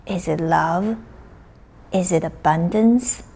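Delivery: unhurried, spacious meditation delivery; guided meditation. Acted. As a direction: guide listeners inward, leaving space after each phrase.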